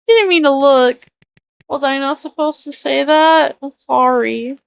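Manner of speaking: hammy fake southern accent; bad southern accent. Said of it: "a really bad southern accent".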